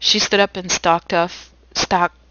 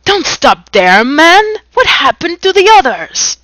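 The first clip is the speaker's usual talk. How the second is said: urgent demand; 10 semitones higher, 9 dB louder than usual. Acted.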